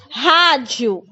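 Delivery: rádio with a throaty strong R, "hadʒiu". Shown as a demonstration. Teacher modelling the strong R for the class. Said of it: "Rádio tem um som forte".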